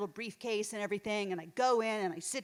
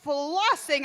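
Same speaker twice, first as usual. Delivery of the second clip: slow showy demo; 5 semitones higher, 6 dB louder, much slower than usual. Shown as a demonstration. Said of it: "demonstrating the mom floss".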